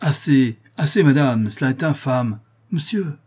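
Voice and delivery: loud, indignant cry of protest; indignant outcry. Acted. Notary rising to refuse the countess, indignant. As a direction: snap it out, outraged. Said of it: "s'écria d'un air indigné".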